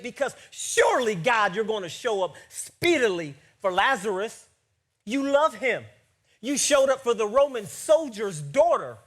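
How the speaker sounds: forceful protest to God, punching key words; impassioned preaching. Acted. Preacher pleading the sisters' case to God, impassioned preaching. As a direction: press the complaint home to the congregation.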